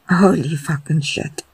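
a cry, ending in a whispered curse. A narrator's reading. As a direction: cry out, then let the last word go breathless. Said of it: "Dean cried".

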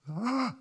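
little hesitant cry of doubt; brief, unsure gasp; timid believer's gasp. Shown as a demonstration. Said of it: "two ways ... One is".

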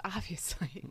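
a secret little aside, whispered. Real, not acted. Host adds a joke about punk rock tattoos, whispered. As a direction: whisper it under a laugh.

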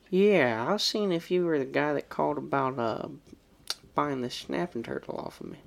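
a hint of a put-on caller voice, barely changed; lightly voiced prank caller; mild put-on phone voice. Shown as a demonstration. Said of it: "I will do the voice just for the sake so you know how I said it".

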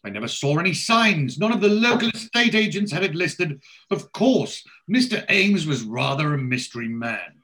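high, loud, affected lady's voice; nosy posh lady. Retold or imitated. Nosy lady quizzing the builders about the sale, affected and high. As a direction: put on a nosy, well-to-do busybody.

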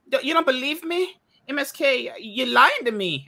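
high-pitched, badly imitated South African accent; Kitty's accent. Quoting a fellow streamer's complaint, in a poor South African accent. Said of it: "did I do her accent very well".

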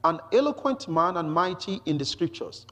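measured, emphatic public reading; scripture reading. Acted. Preacher introduces Apollos from the scriptures, emphatic scripture reading. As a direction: read it out deliberately for the listeners. Reads the Apollos passage aloud.

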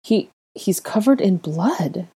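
slow, stammering horror; horrified. Acted. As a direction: falter as the shock sinks in. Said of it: "the girl said in horror".

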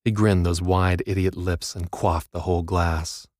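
ordinary delivery

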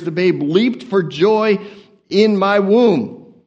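slow, drawn-out womb; deliberate slow scripture read; slow reading stumble. Shown as a demonstration. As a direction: read it slowly and carefully. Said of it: "I can't even read the King James correctly".

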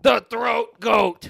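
high, slow, loud proclamation; announcer voice. Pretend. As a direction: proclaim the title grandly. Echoing trainer's title.

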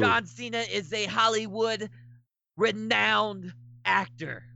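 cocky heel wrestler taunting the crowd; trash-talk the booing fans like a heel; wrestling promo. Pretend. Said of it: "cut your promo".

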